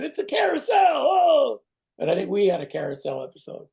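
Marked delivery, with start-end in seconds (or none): 0.0-1.6 much higher, squeaky mock TV cop cry; hammed-up Starsky and Hutch. The actor parodies Starsky and Hutch, squeaking high. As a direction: spoof the old cop show line. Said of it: "The Starsky and Hutch saying".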